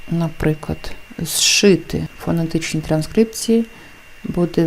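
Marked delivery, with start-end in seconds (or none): 1.2-2.1 «зшити» starting on one long sh. Shown as a demonstration. Teacher gives an example of the rule, long sh. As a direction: say «зшити» as shshyty, no z. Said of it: "довгий".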